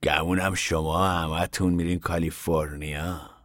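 soft, slow, knowing drawl; a worn-out stranger sizing them up; ragged man voiced. Ragged man to Papa, softly and slowly.

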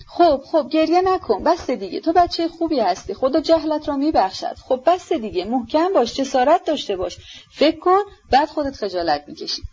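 high, coaxing voice of a motherly lady; soothing older lady. A narrator's reading. Lizaveta to sobbing Ippolit, high and coaxing. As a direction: hush a crying boy, half scolding, half tender.

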